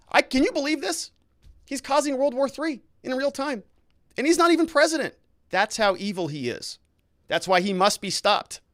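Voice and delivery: high, sarcastic mock-outraged voice; mock outrage. Streamer mocking Trump's critics, high sarcastic outrage.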